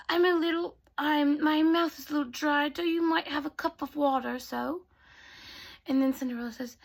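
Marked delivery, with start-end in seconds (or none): 0.1-4.8 slightly raised, dithering godmother voice; hesitantly hint for a favour; fairy godmother. Acted. Teller plays the fairy godmother.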